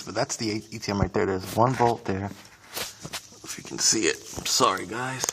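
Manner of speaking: cramped, talking while lying on back; squeezed under the car, speaking in a tight space. Real, not acted. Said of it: "All right, I'm under the car".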